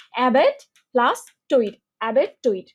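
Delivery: অ্যাবেট and টইট as separate chunks, i sounded in টইট; syllable-split pronunciation. Shown as a demonstration. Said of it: "syllable ভাগ করে পড়লাম". (অ্যাবেট টইট syllable ভাগ করে উচ্চারণ)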